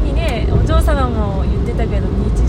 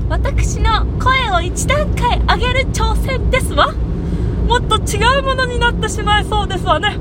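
put-on haughty rich girl japanese; 9 semitones higher, 5 dB louder than usual. Shown as a demonstration. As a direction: raise the voice into a refined heiress. (高く上品なお嬢様口調)

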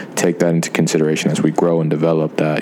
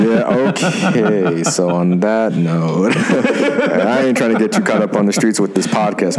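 sexy voice; 3 semitones higher, slower than usual. Pretend. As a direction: lay on the smooth sexy voice. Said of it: "with my sexy voice".

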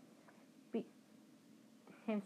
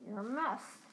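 gruff. Acted. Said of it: "said Hagrid gruffly".

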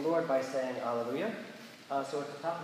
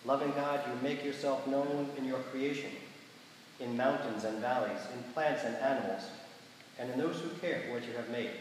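measured liturgical prayer voice; prayer reading. Acted. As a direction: lead the congregation in solemn prayer. Leads prayers of the people.

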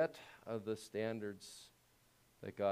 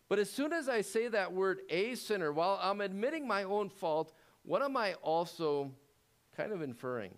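fervent preaching; 9 semitones higher, 5 dB louder than usual. Real, not acted. Preaching climax.

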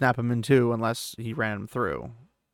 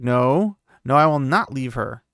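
firm and louder refusal; raised voice; 5 dB louder than usual. Acted. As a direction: put your foot down loudly. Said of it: "he kinda raised his voice at her".

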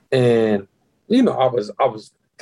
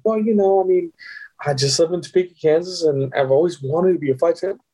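higher-pitched sucking-up act; blowing smoke; 4 semitones higher than usual. Retold or imitated. Candidate buttering up recruiter Tommy, mildly put-on eager pitch. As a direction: lay on the flattering interview act. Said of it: "I'm blowing smoke up his ass".

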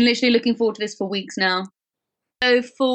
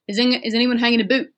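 imitation Northern Irish accent, quickly said; imitating a friend; faster than usual. Testing a friend's catchphrase on a co-host, imitated Northern Irish. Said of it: "my friend Luke used to say that".

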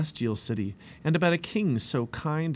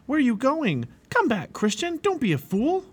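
high, raised-voice crowd shouts; shouting; 13 semitones higher, 4 dB louder than usual. A narrator's reading. Townspeople calling Christian back, shouting. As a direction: shout after someone running off. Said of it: "People who saw him shouted".

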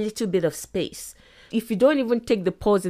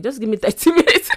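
quick acted plea cracking into a laugh; breaking into laughter; faster than usual. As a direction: laugh through a hurried excuse.

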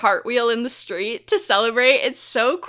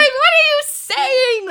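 high, loud, slow disbelief; what are you even saying; stunned disbelieving cry; incredulous; 7 dB louder, slower than usual. Retold or imitated. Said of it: "I was like".

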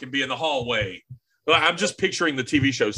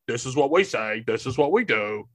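lightly voiced lame old man; big dummy voice; 2 semitones lower than usual. Host mocking himself to co-host, light dummy voice. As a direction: play a bit of a dull dummy. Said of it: "Mister Potato Head meets a really, really lame old man".

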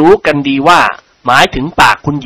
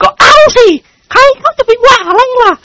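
high, louder shout across the room; 4 dB louder than usual. A narrator's reading. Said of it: "ตะโกนลั่นห้อง". (ตะโกนลั่นห้อง)

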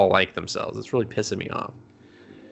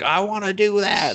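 put-on higher, eager girl voice; mock eager girl; 9 semitones higher than usual. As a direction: beg like a kid. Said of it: "the idiot is just like".

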